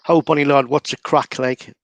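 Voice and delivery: Geordie greeting. Shown as a demonstration. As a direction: greet a mate the Newcastle way. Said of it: "it's exactly the same".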